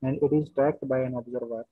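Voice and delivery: very slow, word by word, repeating phrases; slow dictation. Shown as a demonstration. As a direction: dictate slowly so students can write. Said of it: "question लिखिए पहले यहाँ पे".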